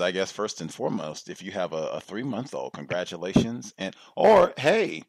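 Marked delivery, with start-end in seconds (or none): 4.2-5.0 sudden high loud and-or; sudden recall. Real, not acted. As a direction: blurt it out as you remember. Host suddenly remembers.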